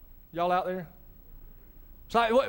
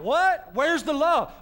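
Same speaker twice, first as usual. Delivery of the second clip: puzzled surprise; 5 semitones higher, slower than usual. Pretend. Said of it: "We would be like".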